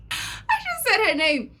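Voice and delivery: high, laughing through the words. Real, not acted. Amused at her own story, laughing as she speaks. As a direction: giggle the line out.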